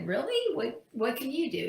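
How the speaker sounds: high-pitched retold disbelief; surprised question. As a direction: act out mild incredulity. Businessman doubts the offered help.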